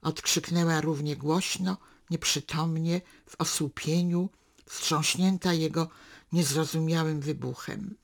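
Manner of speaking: measured literary reading, unhurried; story narration. A narrator's reading. Reader narrating a daughter and father's walk, calm storytelling. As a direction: read the novel excerpt to listeners. Reads a novel excerpt aloud.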